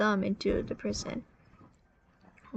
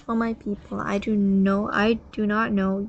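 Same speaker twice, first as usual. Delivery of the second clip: proclaiming loudly; 7 dB louder than usual. Acted. Pharaoh's proclamation.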